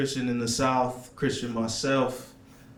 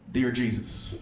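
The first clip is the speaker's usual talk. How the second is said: American prayer. Retold or imitated. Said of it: "An American prayer sounds like this".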